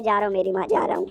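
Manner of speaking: lightly acted, low resigned giving-in; grudging compliance. Mota giving in to bossy Lusha, mildly resigned low voice. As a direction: drop the pitch and give in reluctantly.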